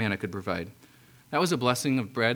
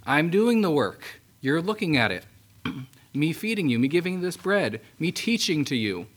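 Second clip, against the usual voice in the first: emphatic Jesus; 4 semitones higher than usual. Acted.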